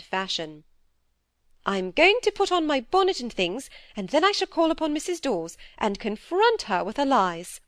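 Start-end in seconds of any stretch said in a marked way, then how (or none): 1.7-7.6 a lightly voiced stern older sister, a bit raised; stern elder sister. Dorothy lecturing Phoebe about her sighing, lightly voiced stern scolding. Miss Browning resolves to act.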